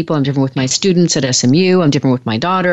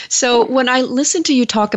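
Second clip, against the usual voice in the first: higher, laughter lingering in the voice; still laughing; 8 semitones higher than usual. Real, not acted. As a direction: talk on while the laugh fades.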